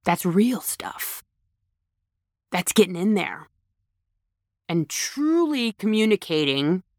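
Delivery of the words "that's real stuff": hushed, slow whisper. Real, not acted. Speaker telling listeners what real feeling is, whispered. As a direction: lean in and breathe it. Stressing what really matters.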